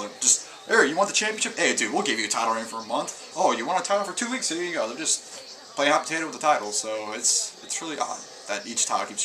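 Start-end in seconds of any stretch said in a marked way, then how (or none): 0.7-4.9 mock careless booker. A vlogger mocking the WWE bookers, in a flippant mock booker voice. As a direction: hand out belts like they mean nothing.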